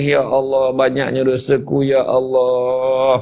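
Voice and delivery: drawn-out repentant lament, half-acted; mock tearful plea. Preacher showing how to cry over one's sins, mock tearful plea. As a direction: imitate weeping to God, stretching the last words.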